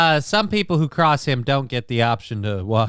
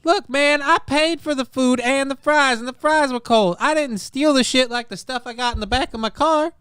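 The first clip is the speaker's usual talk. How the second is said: Alex Stein impression; 11 semitones higher than usual. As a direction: pitch way up and push it like an indignant loudmouth. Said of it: "Oh, that's a good Alex Stein impression".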